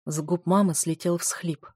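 ordinary delivery

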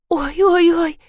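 keen it out, a touch of wail. Acted. Rita wails as the knocking starts, mild lament. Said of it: "запричитала Рита".

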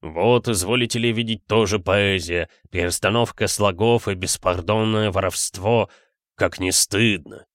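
softened, burred r's; slight burr. A narrator's reading. Geologist-poet sneers at a rival's verse, r's slightly burred. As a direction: speak with a light intellectual's burr. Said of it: "слегка картавил".

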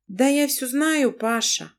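the wife, weary and smiling; tired smile. Acted. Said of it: "с усталой улыбкой проговорила Лана".

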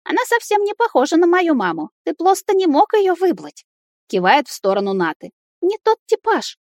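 put-on a boy's cool verdict; judging child. Boy tells his father Nata is not his type, childlike.

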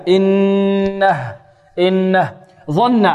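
إنه drawn very long, then إنه ظن stopped; stop with sukun. Shown as a demonstration. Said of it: "نقف عليها بالإسكان". (وقف بالإسكان)

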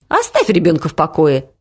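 usual speaking voice

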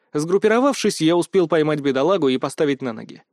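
plain reading voice

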